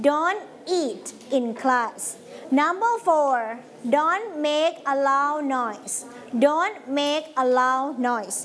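each word stretched out slowly for the class to repeat; slow model reading. Shown as a demonstration. Teacher reading rules aloud for pupils to repeat, slow and deliberate. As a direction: read it slowly, word by word, like a drill.

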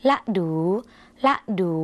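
ละดู as a short ละ, then a longer ดู; two syllables. Shown as a demonstration. Teacher showing how Lao is read, ละดู in two syllables. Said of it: "ถ้าอ่านเป็นสองพยางค์".

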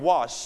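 "wash" with a drawn-out shhh; long SH. Shown as a demonstration. Teacher models for repetition, "wash" ending in long SH. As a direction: hold the final SH of "wash". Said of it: "จะเสียงยาวนะครับ".

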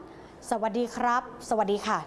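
soft, slow and gentle; polite greeting demo; polite phone greeting. Shown as a demonstration. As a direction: say hello the polite way, softly. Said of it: "จบการพูดด้วยใช้คำว่า".

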